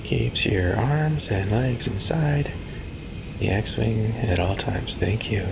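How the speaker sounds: chirpy ride safety announcement; peppy orientation leader. Pretend. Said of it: "down there on my tour guide voice".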